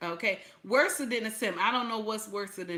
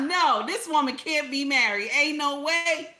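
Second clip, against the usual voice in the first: incredulous; 7 semitones higher, 5 dB louder than usual. Real, not acted. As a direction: drag it out, no way this is true. Incredulous ranting reaction.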